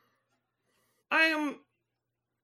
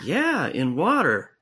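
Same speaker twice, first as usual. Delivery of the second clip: much lower dude voice; alien-changed guy; 9 semitones lower, slower than usual. Acted. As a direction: drop way down into a laid-back bro. Same low character.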